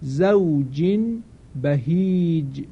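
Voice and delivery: slow zawjin bahij with the n turned to m; drawn-out بهیج, careful recitation; slow iqlab reading; tajweed example. Shown as a demonstration. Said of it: "مثال دوم".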